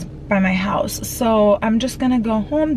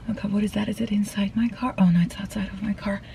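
hushed; 7 dB quieter than usual. Real, not acted. Startled by a noise in car.

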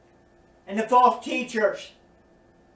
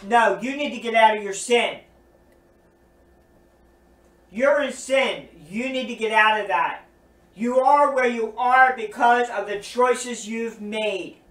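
stern rebuke. Pretend. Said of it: "Instead of telling them".

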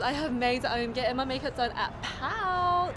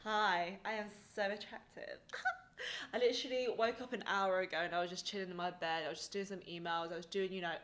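morning quiet voice; 4 semitones lower, 9 dB quieter than usual. Real, not acted. Just woke up, talking softly.

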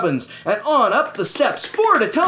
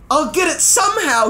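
yelled; 10 semitones higher than usual. Acted. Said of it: "he yelled".

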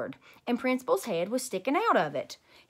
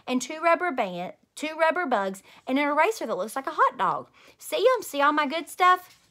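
high, louder eager showing off; excited bragging; 4 semitones higher, 4 dB louder than usual. Acted. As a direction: show off your prizes, bursting with glee. Grace showing off her prizes.

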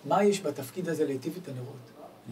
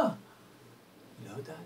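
put-on soft girl's voice; 9 dB quieter, much slower than usual. Girl answers softly.

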